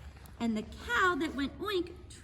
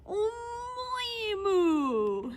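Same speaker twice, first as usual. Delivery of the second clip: failed oink; 5 semitones higher, much slower than usual. Acted. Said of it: "tried to go oink".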